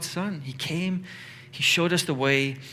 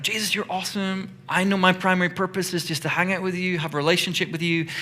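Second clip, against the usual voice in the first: lightly voiced adoring Mary, higher pitch; imagined Mary; 5 semitones higher than usual. Mary talking to Jesus as she hangs out, lightly gushing. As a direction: play a devoted follower gushing a little. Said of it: "She's like".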